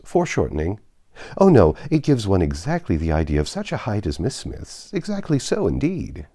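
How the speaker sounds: eager, fast-tumbling insistence; flustered flattery tumbling out; gushing. Acted. Suitor gushing over the portrait, eager and flustered. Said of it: "warmly added".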